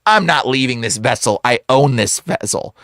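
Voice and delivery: low, controlled refusal; possessive demon. Retold or imitated. Demon refusing to leave the possessed man, low and firm.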